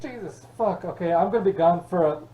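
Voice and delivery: frantic yell, fast and loud; panicked shout. Pretend. Zombies breached the garage.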